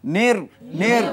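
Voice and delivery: slow, sung-out নির নির with the vowel held; drawn-out syllable demo. Shown as a demonstration. Teacher to students, slow sung-out নির syllable drill. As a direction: drill নির slowly for the class. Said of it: "প্রথমবার ডানে হরকতের সাথে".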